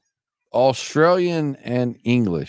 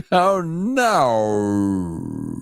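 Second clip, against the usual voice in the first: put-on stoned Australian accent; 3 semitones lower than usual. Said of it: "my stone".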